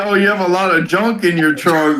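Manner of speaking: lightly voiced wrestler come-on; Viscera. Podcaster quoting Viscera's pickup line, lightly imitated low come-on. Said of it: "this is exactly how he sounded".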